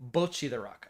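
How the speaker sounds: "bocce" with long rounded o, BOH-chee; own pronunciation. Shown as a demonstration. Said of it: "I'm saying".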